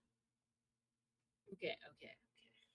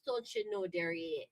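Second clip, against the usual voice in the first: northern Midwest twang with long vowels; elongated Midwest accent; 9 semitones lower than usual. Shown as a demonstration. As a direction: lower Midwest accent on DON'T YOU KNOW. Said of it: "we elongate the A's and the E's".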